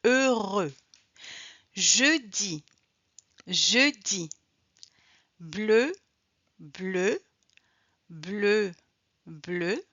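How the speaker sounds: "Heureux", "Jeudi", "bleu" with rounded EU; one careful word at a time, EU held; teacher modelling "Jeudi" and "bleu" for repetition; French EU sound drill. Shown as a demonstration. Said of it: "Voici quelques mots avec le son".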